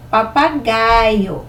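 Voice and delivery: very slow, stretched "Papagaio"; syllable by syllable. Shown as a demonstration. Teacher helping children hear the repeated syllable, syllable by syllable. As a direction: spell out "Papagaio" slowly by syllables.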